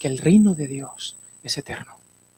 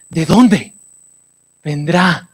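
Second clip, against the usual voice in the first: dramatic psalm reading; 3 semitones lower, slower than usual. Acted. Recita el salmo 121 dramatizado.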